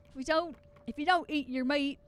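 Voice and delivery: British quote gone country; country accent. Acted. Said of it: "that's country again".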